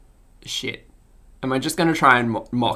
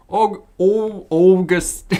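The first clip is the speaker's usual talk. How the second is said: higher, rounded cartoon voice; attempted Elmer voice; 5 semitones higher, 3 dB louder, much slower than usual. Practising a character who can't pronounce R's, Elmer voice. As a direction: have a clumsy go at Elmer. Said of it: "I don't think I can do an Elmer voice".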